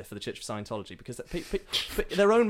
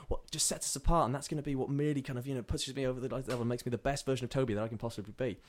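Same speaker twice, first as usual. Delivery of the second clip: eager raised voice; 2 semitones higher than usual. Acted. Toby pleads his faith excitedly.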